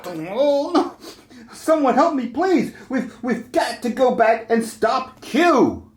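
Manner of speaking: lightly voiced sassy heroine, teasing the captain; sassy crew woman. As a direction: play a fed-up crew woman brushing him off. Skit voicing female crew characters.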